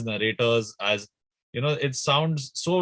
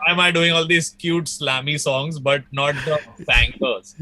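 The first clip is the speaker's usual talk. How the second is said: playful envious whine, pitched up at the start; mock jealous complaint; 4 dB louder than usual. Musician envying a friend's bangers, mock jealous. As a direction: make a hammed-up plea for your turn. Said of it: "now I get really jealous".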